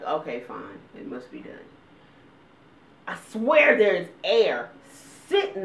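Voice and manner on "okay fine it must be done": lower, fading to a whisper; resigned mutter. Retold or imitated. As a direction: give up quietly. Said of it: "So you're like".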